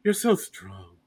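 soft breathy starlet swoon; breathy hollywood starlet. Retold or imitated. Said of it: "she kinda talks in, like, a breathy whisper a lot".

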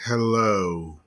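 low sultry radio voice. Pretend. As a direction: purr it like a late-night DJ. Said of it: "This is my radio voice".

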